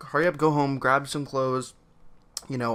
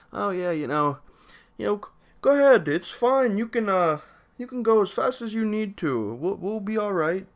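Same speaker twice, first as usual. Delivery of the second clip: higher-pitched, hammed-up Amish boss; bad Amish guy voice; 8 semitones higher, 4 dB louder than usual. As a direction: play the laid-back Amish boss, pitched up and a bit overdone. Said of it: "terrible impression of an Amish dude".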